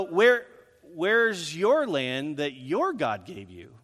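mildly sarcastic challenge, leaning on each "your". Retold or imitated. Jephthah taunting the Ammonites about their god, sarcastic. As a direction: needle them with a drawn-out, mock question. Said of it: "in a sarcastic way, says to them".

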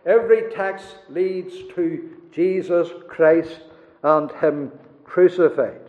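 emphatic restatement. Acted. Preacher proclaiming to the congregation, emphatic. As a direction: drive the point home to the congregation.

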